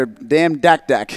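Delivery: mock non-Australian accent; playful non-Australian accent on "damn dak dak". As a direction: put on a jokey foreign-to-Australia accent. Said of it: "doing that in a not an Australian accent".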